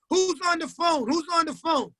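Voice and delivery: pitched high, calling out the question; mock shouting from across the house; retold yell. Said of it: "they yell".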